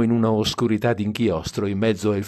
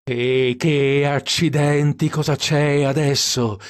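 higher, drawn-out exclamation; exasperated outburst; 5 semitones higher, 4 dB louder, slower than usual. A narrator's reading. Dean cursing headlights that won't work, exasperated. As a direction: curse in mild exasperation.

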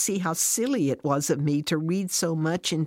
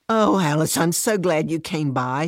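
brightening with relief, a bit louder; lighting up; 4 dB louder than usual. Acted. Fran greets her friend Alice, suddenly glad and louder. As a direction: sound glad your friend dropped by. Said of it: "Fran lights up".

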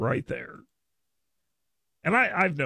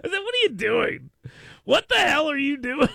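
high, laughing what are you doing; incredulous, pitched up and laughing; laughing mock outrage; 11 semitones higher than usual. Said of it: "I said".

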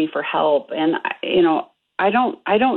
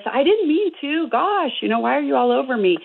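higher, mildly defensive protest; defensive son; 8 semitones higher than usual. Retold or imitated. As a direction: play the son brushing off his sister's blame. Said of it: "he started with".

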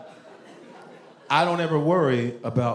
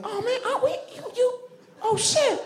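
squeaky high-pitched astonishment; mock Southerner floored by news, far above normal pitch; high surprised Southern voice. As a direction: voice shoots way up in shock, laughing disbelief. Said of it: "their voices go up really high".

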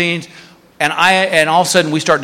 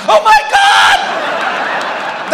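very high, slow, breathless gasp; hammed-up terror; scared passenger in turbulence, mock panic; much slower than usual.

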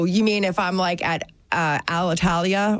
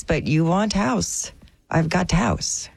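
put-on slow, broken Eastern European accent; 3 semitones lower, slower than usual. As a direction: hustler pitching in a thick Eastern European accent. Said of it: "Is this Eastern European?".

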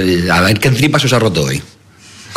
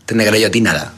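comic character voice. Acted. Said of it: "¿quién es el número uno?".

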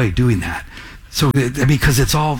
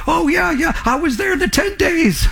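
eager stranger; 13 semitones higher than usual. Retold or imitated. Stranger brags about tent days.

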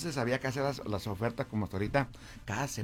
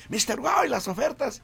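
crowd calling out; 13 semitones higher, 7 dB louder than usual. Retold or imitated. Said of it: "y de ahí la gente".

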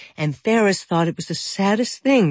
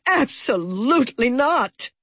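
shouted; 8 semitones higher than usual. A narrator's reading. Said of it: "shouted Ferris's mother".

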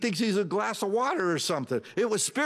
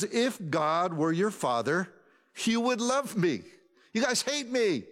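calm; 5 semitones higher than usual. Retold or imitated. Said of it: "He is so calm".

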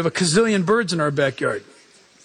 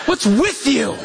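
sarcastic coworkers; 2 semitones higher, slower than usual. Retold or imitated. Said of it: "And they'll go".

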